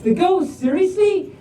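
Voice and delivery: high, disbelieving whine; exasperated rock. Acted. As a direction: squeak out the disbelief.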